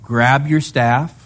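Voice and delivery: a lightly voiced relaxed Lord; casual God voice. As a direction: play God breezily listing the plan. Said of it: "He gives them a simple three-part plan".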